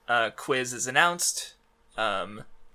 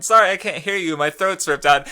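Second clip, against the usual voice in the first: mock taunt; 4 semitones higher, 6 dB louder than usual. Mocking retold reply to villain.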